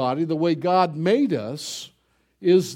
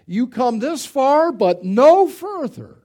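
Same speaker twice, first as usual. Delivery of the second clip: much higher, louder, slow commanding; commanding Jesus; 7 semitones higher, 6 dB louder, slower than usual. Acted. Jesus at the bier ordering death to stop, loud and high. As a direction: halt death with authority. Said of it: "as if to say".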